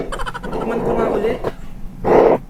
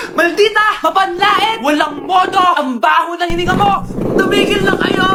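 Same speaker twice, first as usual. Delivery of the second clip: angry. Acted. Women trading insults.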